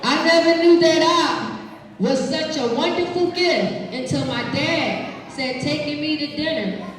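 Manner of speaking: put-on expressive read-aloud to kids; reading to children. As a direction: read it warmly to the class. Reading picture book aloud.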